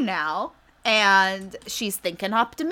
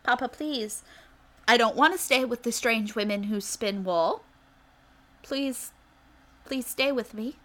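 put-on begging child; 2 semitones higher than usual. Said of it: "Rumple is begging and pleading".

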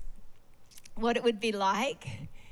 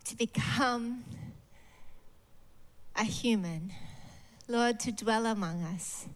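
prayer. Real, not acted. Leads closing prayer.

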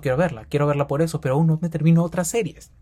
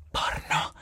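whisper; 9 dB quieter than usual. Acted. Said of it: "whispered naughty word".

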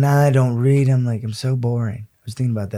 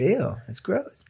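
softer whispered disgust; 3 semitones higher, 7 dB quieter than usual. Real, not acted. Disgusted at Applebee's fan.

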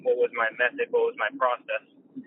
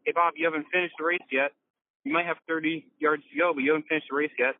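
sideline heckler; 5 semitones higher than usual. Retold or imitated. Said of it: "Just 'cause somebody's like".

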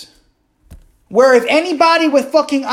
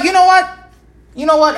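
exasperated outburst; 5 semitones higher, faster than usual. Retold or imitated. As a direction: spit it out in disbelief. Angry reaction to president.

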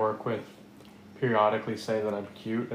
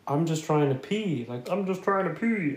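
lightly high, nasal-free Pee-wee imitation; a light go at the Pee-wee Herman voice, rising on the repeat; a hint of Pee-wee doing a rapper's bit; 6 semitones higher than usual. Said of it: "he does the Pee Wee Herman voice".

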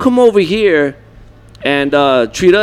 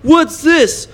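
mock customer; 9 semitones higher, much slower than usual. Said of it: "he goes".

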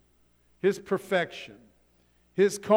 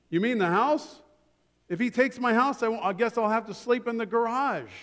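mildly alarmed, higher-pitched protest; raised pitch, taken aback; dismayed buyer; 5 semitones higher, faster than usual. Acted. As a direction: act out dawning dismay at losing it all. Man losing house, acted dialogue.

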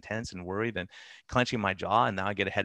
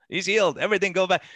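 excited cheering; 8 semitones higher, 5 dB louder than usual. Retold or imitated. Church folk celebrating healed man.

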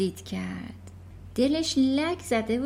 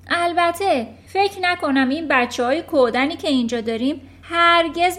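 loud, higher, boastful headmistress; Trunchbull's voice; 4 semitones higher, 7 dB louder than usual. Acted. Headmistress boasting to the class, loud and scornful. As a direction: bellow it like a proud, brutal headmistress.

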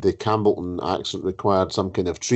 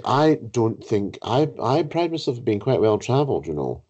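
mock-haughty host, pitched higher; haughty disbelief; 5 semitones higher than usual. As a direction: imitate an affronted, well-travelled book-group host. Retold host disputes the word indignantly.

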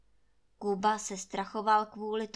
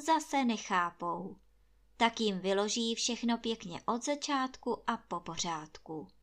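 usual speaking voice

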